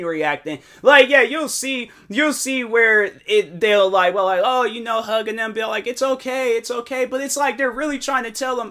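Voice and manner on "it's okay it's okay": high-pitched mock reassurance; imitated soothing. Star hugging a crying fan, imitated soothing. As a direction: placate someone in a raised, cooing pitch.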